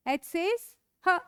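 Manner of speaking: "ह" drawn out slowly; slow letter sound. Shown as a demonstration. Teacher sounding out H for the class, slow. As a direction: breathe out "ह" slowly.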